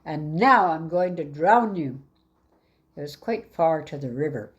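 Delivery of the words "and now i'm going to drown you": loud menacing announcement; a loud, threatening line; said loudly. Acted. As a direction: declare it loud for all to hear. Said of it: "said loudly".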